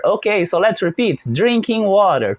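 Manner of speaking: drinking water said slowly and clearly; slow model phrase. Shown as a demonstration. Teacher models the new form for the class, slowly.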